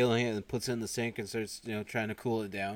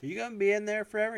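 high, loud, rapid nagging; impatient woman; 12 semitones higher, 5 dB louder, faster than usual. Retold or imitated. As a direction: call impatiently through a closed door. Voicing impatient woman outside office door.

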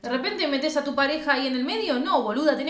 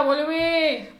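drawn-out higher mock plea; mock pleading call; 4 semitones higher than usual. Friends begging Greta to come back, mock pleading. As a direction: call her back, hammed-up.

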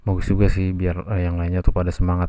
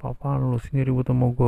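angry; 5 semitones higher, 3 dB quieter than usual. Retold or imitated. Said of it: "ada yang marah".

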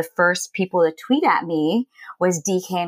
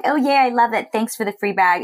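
mock gushing, higher and brighter, clearly insincere; fake PR gushing; 5 semitones higher than usual. Mocking what a PR-friendly blogger would say about a free bag, in a fake gushing voice. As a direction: oversell it like a PR hack thanking for freebies. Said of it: "play the P R game like".

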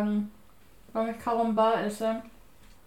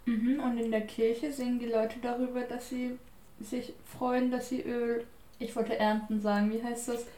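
talking through sticky caramel; words around a chewy toffee; chewing sticky toffee; 4 dB quieter than usual. Real, not acted. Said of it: "Jetzt hab ich Karamell in meinen Zähnen".

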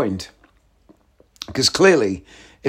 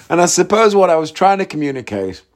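usual speaking voice

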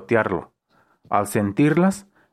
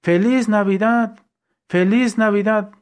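put-on drunk shouting; 9 semitones higher than usual. A narrator's reading. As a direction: bellow it like a tipsy barfly. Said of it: "un borrachito grita".

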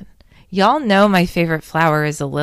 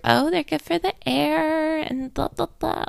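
mocking quote; 10 semitones higher, 5 dB quieter than usual. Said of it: "don't come at me about".

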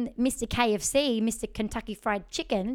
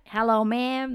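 lightly imitated Southern cowboy; a touch of courteous mock Southern; Southern accent; 2 semitones higher, 4 dB louder than usual. Cowboy greeting the singer as they come in, mock Southern. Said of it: "Man, the Southerns loved you".

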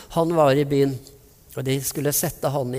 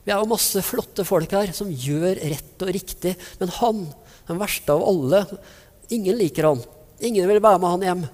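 mock indignant crowd, higher pitched; indignant grumbling; 4 semitones higher than usual. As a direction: scoff like an offended bystander. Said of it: "misfornøyde utsagn". (hånlig, indignert mumling)

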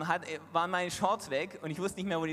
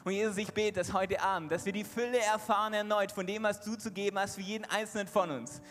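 prayer. Real, not acted. Closing prayer.

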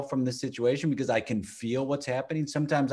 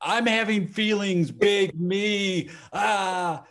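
higher, laughing through a botched line; mock flubbed try; 6 semitones higher, slower than usual. Parent botching a first try at calm talk, laughing. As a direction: fumble it and crack up. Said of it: "I might go".

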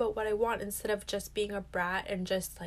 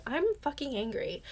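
said out loud; 4 semitones higher than usual. Shown as a demonstration. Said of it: "literally say it out loud".

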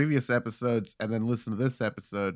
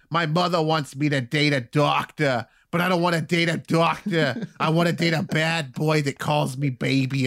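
mock comic's voice, lifted and louder; mock stand-up joke voice; 5 semitones higher, 4 dB louder than usual. Mocking a hack comic's bit to the host.

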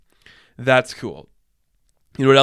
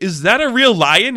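amazed question; 8 semitones higher, 6 dB louder than usual. Pretend. Imagined onlookers ask about costume.

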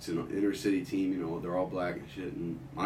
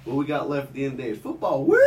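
mock hick teammate; 5 semitones higher, 3 dB louder than usual. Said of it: "He goes".

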